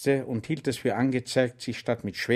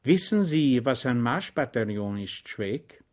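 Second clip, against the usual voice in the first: meaningful. Acted. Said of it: "sagte er Schweig bedeutungsvoll".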